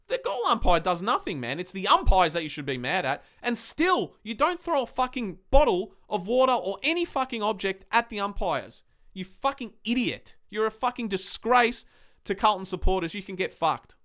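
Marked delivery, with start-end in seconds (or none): 3.4-14.0 angry rant. Real, not acted. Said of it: "That's my little rant there".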